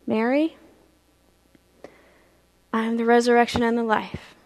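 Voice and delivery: low, soft, measured reply; gentle reassurance. Acted. Jesus answering grieving Mary, soft and gentle. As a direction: console gently with long pauses.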